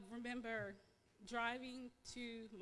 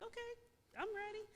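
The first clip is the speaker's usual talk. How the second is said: retold excited reply, pitched much higher; eager excitement; 12 semitones higher, faster than usual. Patient answering the doctor about biopsy results, retold excitement. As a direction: lift the voice high, lightly acting eagerness. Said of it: "I'm just excited".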